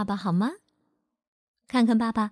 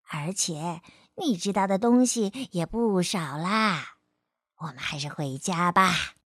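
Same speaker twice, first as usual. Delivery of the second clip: reassuring; 3 semitones lower than usual. A narrator's reading. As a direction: gently talk a sad friend round. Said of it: "安慰她说".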